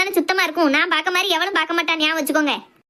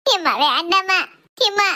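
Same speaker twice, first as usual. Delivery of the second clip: tearful pleading; slower than usual. Acted. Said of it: "தரையில படுத்து அழுதுட்டு கிடக்கா".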